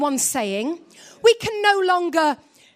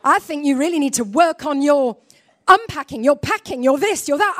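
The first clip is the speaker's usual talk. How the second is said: husband lecturing; 4 dB louder than usual. Retold or imitated. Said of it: "And he goes".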